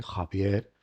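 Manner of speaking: JAVIER with a soft aspirated h-like J; J in "Javier" lightly aspirated; Andalusian soft J. Shown as a demonstration. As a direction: say "Javier" with a breath for the J. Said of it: "una especie de J andaluza".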